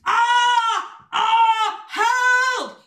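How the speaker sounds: loud, high-pitched cries for help; acted shout. Marvin clinging to the windy tree, high acted shout. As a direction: cry out in storybook panic. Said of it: "shouted Marvin".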